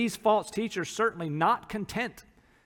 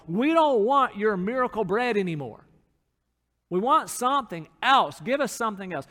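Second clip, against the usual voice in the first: whiny grumbling Israelites; 4 semitones higher, 4 dB louder than usual. Retold or imitated. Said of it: "they pretty quickly began to grumble".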